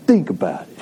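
put-on playful Boston accent. Preacher prompting the congregation's last words, in a Boston accent. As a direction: say it like a Bostonian, for fun. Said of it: "say that with a Boston accent".

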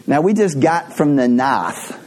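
a rough go at a New York accent; badly faked New York accent; attempted New York accent. Shown as a demonstration. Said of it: "Can't do that accent very good".

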